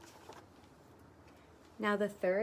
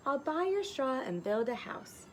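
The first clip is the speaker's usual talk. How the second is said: eager little pig; 5 semitones higher than usual. Acted. Little pig voiced in story.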